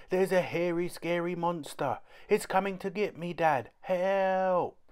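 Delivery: put-on high child voice crying monster; a small boy faking fright to fool Dad; little boy's fake alarm. A narrator's reading. Kipper fakes monster fright to Dad, high pitched.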